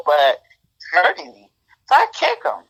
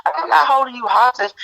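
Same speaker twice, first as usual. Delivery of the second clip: retold exasperated yell; 8 semitones higher than usual. Woman yelling at her boyfriend to just leave. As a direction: throw the words at him, fed up and near tears. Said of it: "And I was like".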